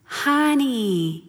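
drawn-out, soothing Bostonian mentor; an older friend's light Bostonian accent, imitated. Mentor answers a fretting mother, Bostonian accent. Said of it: "she's got a little Bostonian accent".

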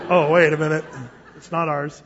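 chuckling through the words; amused mock realization; laughing realization. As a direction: catch yourself mid-laugh. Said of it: "You come in here".

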